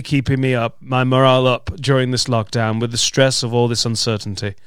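lightly hammed reading of a listener's letter; measured actorly delivery; trained actor reading. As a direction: read out theatrically, like a trained actor. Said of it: "read it as a trained actor".

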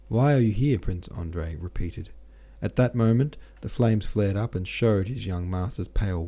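measured audiobook reading voice; story narration. A narrator's reading. Narrator reading a War and Peace chapter aloud, steady. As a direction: read the chapter evenly to listeners.

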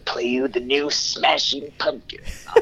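slow, announcing DJ drawl; radio DJ voice. Retold or imitated. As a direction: play it like a late-night radio host. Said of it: "he would be like".

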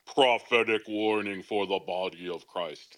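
a hint of mock prophetic solemnity; deep-voiced prophetess. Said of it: "with my deep voice".

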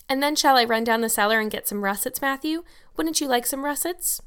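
lightly voiced eager girl, questions lifting high; a hint of a chirpy child. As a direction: offer a treat hopefully, pitch climbing. Voices Anne in the story.

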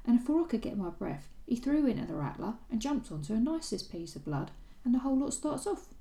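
light Cockney lilt, lifting as it goes; a lightly voiced Cockney stable lad telling what he saw; gentle Cockney accent, rising toward the end. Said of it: "Are you gonna do your Cockney accent?".

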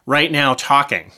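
short of breath while talking; winded, pushing through words. Real, not acted. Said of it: "I'm actually getting out of breath".

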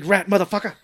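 high, loud mock gangster outburst; hammed-up insult. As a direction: belt out the movie insult with glee. Repeats film insult, hamming, laughing.

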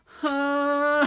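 teasing. Acted. Husband teasing wife.

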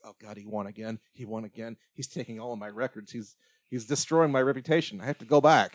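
mock frustration rising at the end; retold anger. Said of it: "You kinda see that anger".

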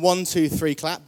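loud, energetic count-in; rally the room on the count. Shown as a demonstration. Preacher leading a clap, counting loudly. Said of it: "just kind of do this action".

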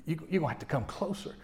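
real low whisper. Shown as a demonstration. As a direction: drop to a whisper so they lean in. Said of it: "if I'm gonna talk real low".

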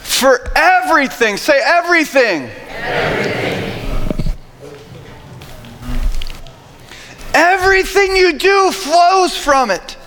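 high, emphatic scripture preaching. Real, not acted. Preacher urging the church to guard their hearts, emphatic preaching. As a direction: drive each phrase home, pitched high.

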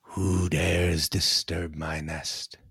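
slow, booming dragon; a great dragon speaking slowly; raspy dragon voice. Acted. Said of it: "with a sharp, raspy voice, the great dragon boomed".

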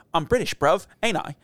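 lightly imitating a kid's fake British accent; a touch of mock British slang voice; silly British accent. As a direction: do your son's goofy little British accent. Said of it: "stupid, like, little, like, British accent".

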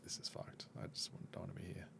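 very soft, under-the-breath quote; dejected retold aside. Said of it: "and I'm like".

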